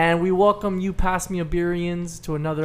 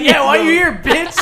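high, loud mock sass; sassy; 9 semitones higher, 9 dB louder than usual. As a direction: fire it back with attitude. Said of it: "You're like".

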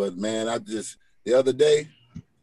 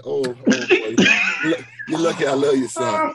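fond exasperation with a laugh; loving exasperation; 5 dB louder than usual. Retold or imitated. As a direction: scold him gently, half laughing. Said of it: "I said".

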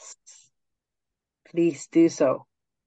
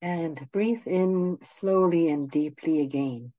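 guided meditation; 4 dB quieter than usual. Acted. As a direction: ease them gently into stillness.

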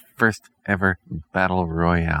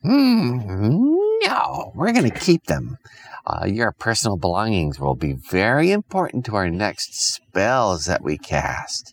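lightly voiced witch; 3 semitones higher than usual. Witch refuses, slow ending.

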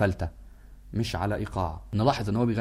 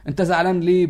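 fatherly reassurance; 5 semitones higher, 7 dB louder than usual. Retold or imitated. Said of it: "فيه كده نظرة أبوية".

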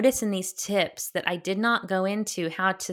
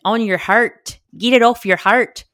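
playful louder repeat; 4 semitones higher, 9 dB louder than usual. Real, not acted. Playful repeat after accent slip.

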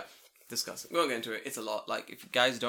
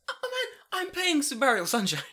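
loud, high indignant protest; mock indignant yell; 14 semitones higher, 7 dB louder than usual. Gamer yelling at police who wrecked his save, loud and high. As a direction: protest it loudly like a wronged gamer.

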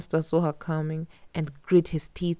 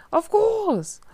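monster voice; 9 dB louder, slower than usual. A narrator's reading. Monster agrees.

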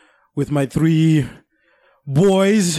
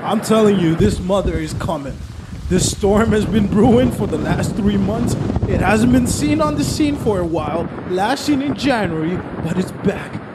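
storm reporter; 4 semitones higher than usual. Acted. Mock reporter on scene.

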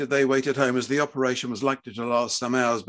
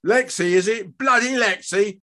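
high, scornful roar; angry bellow; 9 semitones higher, 5 dB louder than usual. A narrator's reading. Husband mocking his child's new name, bellowing. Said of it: "Fred bellowed".

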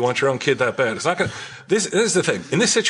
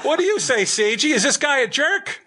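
high puppet voice; 14 semitones higher than usual. Acted.

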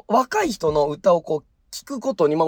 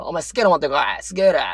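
gruff order; 3 semitones lower, faster than usual. Retold or imitated. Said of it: "言われたもの渡す".

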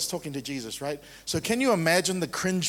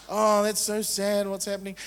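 mock pity; 3 semitones higher than usual. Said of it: "That's pity".

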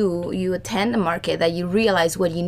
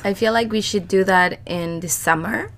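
scratchy, strained voice; hoarse voice fading out; voice giving out. Real, not acted. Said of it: "I'm so sorry about my voice".

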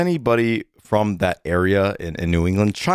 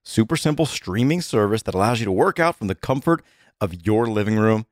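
upbeat, conversational sponsor read; steady promo read, key offers punched; podcast ad read. Acted. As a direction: sell it like a friendly host endorsement. Reads a sponsor ad.

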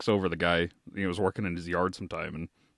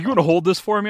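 neighbor's request; 9 semitones higher, 8 dB louder, faster than usual. Retold or imitated. Neighbor on ladder asks favor.

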